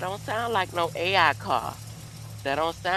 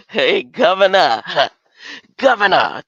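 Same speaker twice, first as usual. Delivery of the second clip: Governor called out loud; wrong take of Governor; 4 semitones higher, 12 dB louder than usual. Shown as a demonstration. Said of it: "I'm saying it wrong".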